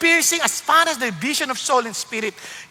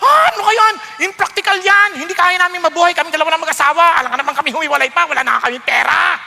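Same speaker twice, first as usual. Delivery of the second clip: 1 mock protest; 4 semitones higher, 5 dB louder than usual. Acting out protesting couple.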